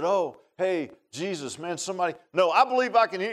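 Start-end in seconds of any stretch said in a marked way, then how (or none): 0.0-2.1 mock offhand call; casual call. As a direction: call out half-heartedly, as if it hardly matters. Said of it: "I don't think he just said".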